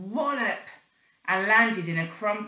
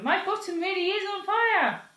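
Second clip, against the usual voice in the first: high, urgent cry; boy crying out his bottom burns; panicked; 11 semitones higher than usual. Acted. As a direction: plead it in rising panic.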